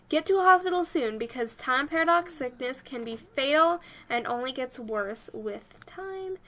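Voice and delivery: lively pop-up narration; reading game text aloud. Acted. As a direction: read the message out with some drama. Reads the game's pop-up aloud.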